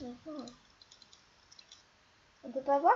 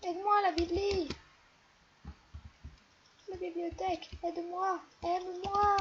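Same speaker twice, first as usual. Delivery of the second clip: loud, higher pleading call; loud desperate call to the bookcase; calling for help; 5 semitones higher, 4 dB louder than usual. Real, not acted. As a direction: cry out for help.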